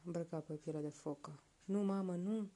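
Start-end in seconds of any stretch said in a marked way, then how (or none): 1.6-2.5 put-on a little boy crying out no; mild child's shout. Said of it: "strigă micuțul".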